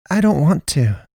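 high, halting, frightened; stuttered plea. A narrator's reading. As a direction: stammer it out. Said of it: "Naomi stuttered".

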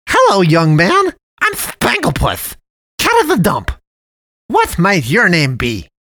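sugary high cartoon voice; jolly cat man. A narrator's reading. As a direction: play the friendly dump cat, overly sweet. Cat man character introduces himself.

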